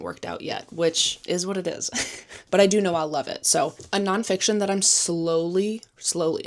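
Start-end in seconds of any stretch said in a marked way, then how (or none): 4.8-6.5 SLOWLY drawn out, then repeated for emphasis; emphatic, stretched-out SLOWLY; stress on SLOWLY. Real, not acted. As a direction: lean on the word SLOWLY, stretching it. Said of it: "emphasis on slowly".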